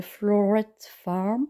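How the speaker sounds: clumsy English accent, self-conscious. Shown as a demonstration. Vlogger naming a flower farm channel, in a self-deprecating English accent. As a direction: say the English name in a rough English accent. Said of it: "Vous m'excuserez pour mon accent anglais assez pourri".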